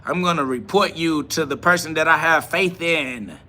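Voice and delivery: hammed-up mockery of a reporting viewer; mock snitch voice. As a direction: drag it out like a smug reporter. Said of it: "They're like".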